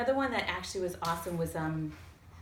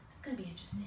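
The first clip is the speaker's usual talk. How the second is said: whispered aside; 7 dB quieter, much faster than usual. Retold or imitated. Muttering to herself on corner.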